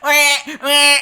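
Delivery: high, loud glitching bleats; stuck computer noises; overloaded brain. Retold or imitated. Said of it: "my brain is like".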